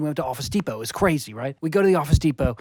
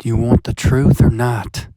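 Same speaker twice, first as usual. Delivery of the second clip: intense demanding; 3 semitones lower, 7 dB louder than usual. Acted.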